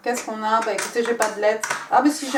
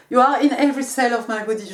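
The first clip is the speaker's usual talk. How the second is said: louder, fast, gushing love line; dramatic English reading; 4 semitones higher, 8 dB louder, faster than usual. Acted. Tarot reader reads the card message aloud, gushing and dramatic. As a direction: declaim it like a swooning love confession. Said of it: "je parle comme ça aussi quand je parle".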